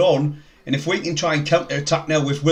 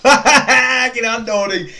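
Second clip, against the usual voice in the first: laughing cheer; 9 semitones higher, 8 dB louder, much slower than usual. Real, not acted. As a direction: shout it out through laughter, much higher and louder. Cheering Nordy while laughing.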